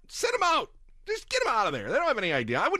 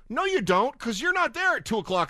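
angry retort; 8 semitones higher than usual. Real, not acted. To the White House, angry rebuttal. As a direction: throw it right back at them. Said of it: "answering the line".

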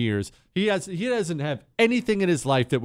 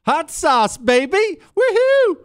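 much higher and louder, whooping at the end; pandering cheer mock; 7 dB louder, slower than usual. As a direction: ham up a politician pandering to the crowd. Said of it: "She was sitting there with black people".

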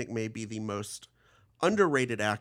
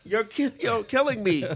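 mock Kansas accent; 11 semitones higher, 8 dB louder than usual. Joining the Walken Kansas bit.

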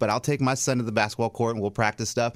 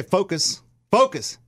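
restrained sideline reminder, a little raised; controlled coaching call on FOCUS; firm parent instruction; 4 semitones higher, 3 dB louder, slower than usual. Shown as a demonstration. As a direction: say FOCUS firmly, short of a yell. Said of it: "I'll, I'll say".

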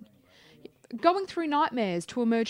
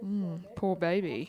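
mock pity; 3 semitones lower, 5 dB quieter, slower than usual. Teasing fake pity.

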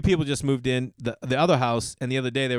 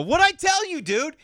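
much higher and louder, triumphant; vindicated cry; 5 dB louder than usual. Retold or imitated. Host gloating to his friend Todd that he had been right, triumphant shout. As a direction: crow it like you were right all along.

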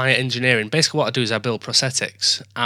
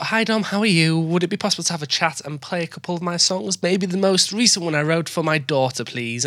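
imitating her message; 3 semitones higher than usual. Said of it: "I love how you do the, my voice".

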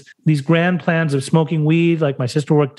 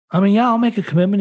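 quick, higher, casual yes to the counselor; offhand agreement; 5 semitones higher, faster than usual. Retold or imitated. Brushing off the counselor's question, offhand and quick. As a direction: toss off the promise lightly. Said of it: "No, seriously".

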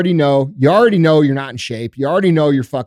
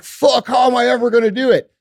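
high, mock-despairing cry of defeat; overwhelmed despair; 8 semitones higher than usual. At the bottom of the mountain, mock-despairing. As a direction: act out the moment it feels hopeless. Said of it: "you're like".

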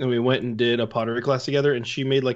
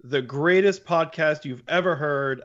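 announcer voice; 3 semitones higher than usual. Acted. Opens podcast as a showman.

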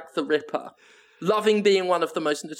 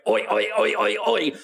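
British bobby; 4 semitones higher than usual. Pretend. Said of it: "like a British police officer".

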